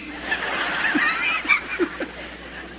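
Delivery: risa aguda sin voz. Real, not acted. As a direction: suelta una risa aireada y alta. Risa tras el grito. (el predicador se ríe de su propio grito, risa aguda)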